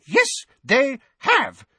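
high, slow, loud yell. A narrator's reading. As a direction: bellow it at him. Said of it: "yelled Missus Figg".

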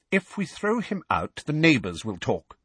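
high-pitched aunt, starting tense; brisk, snappish. Acted. Aunt recovering and overruling her husband, brisk and snappish. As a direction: state it briskly, allowing no argument. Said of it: "regaining her usual brisk, snappish manner".

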